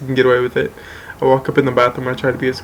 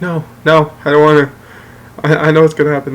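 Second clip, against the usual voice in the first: louder, insistent protest, lightly acted; retold alarmed refusal; 2 semitones higher, 6 dB louder, faster than usual. Son refusing dad before a spanking, retold alarmed protest. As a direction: refuse emphatically, imitating a kid in trouble.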